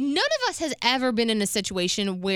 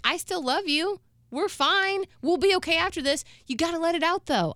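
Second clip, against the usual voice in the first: higher-pitched soothing retelling; imitating reassuring mother; 7 semitones higher than usual. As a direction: gently comfort your grown child.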